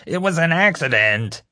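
very high tearful protest; wailing. A narrator's reading. Crying prisoner insists to the officer, wailing. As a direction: bawl out the excuse. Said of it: "James wailed".

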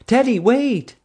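a high, loud call across the parking lot; yelled. A narrator's reading. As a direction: shout after them to stop. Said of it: "someone yelled".

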